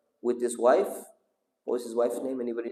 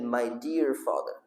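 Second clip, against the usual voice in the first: tender plea; 2 semitones lower, 4 dB quieter, slower than usual. Acted. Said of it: "It's a beautiful way of saying".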